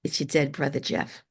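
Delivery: imitated heavy New York accent, low-key. Woman relays her dead brother's greeting, imitated New York accent. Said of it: "very heavy New York accent".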